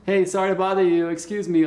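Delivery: demonstrated courteous opener; polite interruption. Shown as a demonstration. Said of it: "like this".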